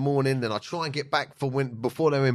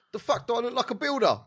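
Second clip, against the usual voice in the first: indignant retort; 9 semitones higher than usual. Retold or imitated. Retold retort to missus.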